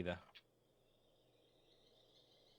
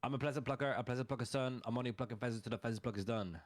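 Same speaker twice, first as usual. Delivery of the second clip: tongue twister; faster than usual. Shown as a demonstration. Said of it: "I can't do that 'cause I'm tongue-tied".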